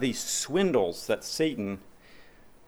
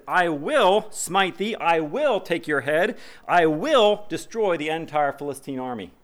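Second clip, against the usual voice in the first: David's defiant cry; 5 semitones higher than usual. Retold or imitated. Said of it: "He says".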